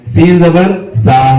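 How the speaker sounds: slow "سین زبر سا" with a normal whistle-like s; whistling seen. Shown as a demonstration. Teacher listing three similar letters, slow whistled s in "سین زبر سا". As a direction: draw out "سین زبر سا", hissing the s cleanly. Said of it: "سیٹی کی طرح اسے پڑھنا چاہیے".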